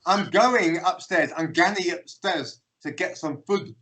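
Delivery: slow, spelled-out delivery; slow translation. Retold or imitated. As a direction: say each word separately for a baffled foreigner. Slow translation of the Scots phrase.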